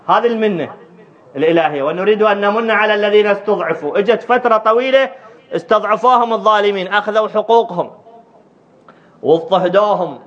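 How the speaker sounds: preacher's high, carrying promise. Acted. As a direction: proclaim it to the congregation in a lifted voice. Preaches with raised voice.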